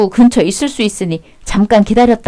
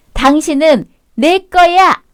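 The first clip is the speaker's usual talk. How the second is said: slow, higher, drawn-out possessive purr; the mistress claims her lover, slow and high; 5 semitones higher, slower than usual. Acted. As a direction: savour every word as she claims him.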